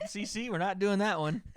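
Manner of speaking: laughing through the words. Real, not acted. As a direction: chuckle while refusing. Laughing off a chat suggestion.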